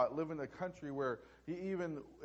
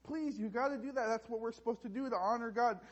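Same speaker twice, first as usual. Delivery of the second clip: higher, lightly voiced little boy; pleading little boy; 4 semitones higher, 4 dB quieter than usual. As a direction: plead lightly like a child with his sister. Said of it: "And the little boy goes".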